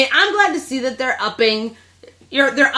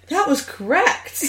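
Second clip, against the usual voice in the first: laughing; 4 semitones higher, 3 dB quieter, slower than usual. Retold or imitated.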